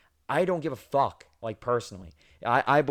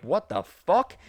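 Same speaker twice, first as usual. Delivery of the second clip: shocked; 7 semitones higher, 5 dB louder, much slower than usual. Retold or imitated. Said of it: "I'm like".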